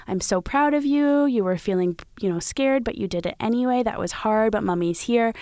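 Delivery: high, warm praising voice; lightly voiced proud mother greeting her daughter; proud mom. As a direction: gush over your kid's bravery. Mother praising child after school.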